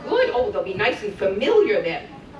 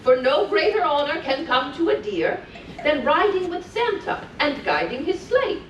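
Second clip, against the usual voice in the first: put-on lilting read-aloud for small children; sing-song storytelling voice; storybook reading; 2 semitones higher than usual. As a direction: read it like a bedtime story to little ones. Reading continues.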